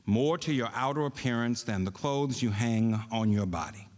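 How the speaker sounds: deliberate reading with long pauses for emphasis; slow, emphatic reading. Shown as a demonstration. Preacher reading scripture to congregation for emphasis, slow and emphatic. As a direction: read scripture slowly, weighing each phrase. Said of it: "I know I read that slow".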